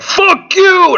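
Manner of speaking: high, loud yelled insult; angry yell. Retold or imitated. Dad yelling back at the woman, loud and angry. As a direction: hurl it back at her. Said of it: "And he's like".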